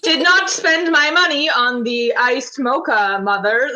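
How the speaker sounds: slow, prim no-contraction voice; mock-formal talk to mother; prim daughter voice.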